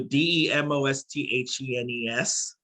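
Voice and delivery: "D E M O S T H E N E S" spelt out letter by letter; enunciating every letter. Retold or imitated. Guest imitating people trying his name, "D E M O S T H E N E S" letter by letter. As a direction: spell "D E M O S T H E N E S", each letter named separately. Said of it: "they try to enunciate every letter".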